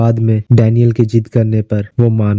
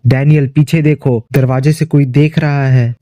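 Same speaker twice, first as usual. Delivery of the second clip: understated narrated yell, barely raised; mild acted shout; 3 semitones higher than usual. Robin warns Daniel someone is at the door, mildly shouted. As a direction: call out a warning, only mildly urgent. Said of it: "जोर जोर से चिल्लाते हुए".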